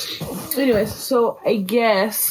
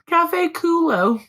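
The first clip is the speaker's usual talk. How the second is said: slow, higher Anglo-American reading of Spanish; drawn-out "culo" as "KOO-loh" in a white American accent; 7 semitones higher, much slower than usual. Retold or imitated. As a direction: read the Spanish slowly with an exaggerated American accent. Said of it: "Now they even said it white too".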